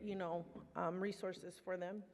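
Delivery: getting emotional. Real, not acted. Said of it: "sorry, I'm getting emotional".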